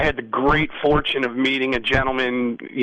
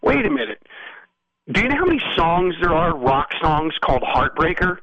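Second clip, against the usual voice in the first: higher-pitched, incredulous retort; debating protest; 4 semitones higher than usual. Retold or imitated. Songwriter disputing a song title with co-writer, incredulous protest. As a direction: argue the point, ticking off each example. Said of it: "we had a little debate".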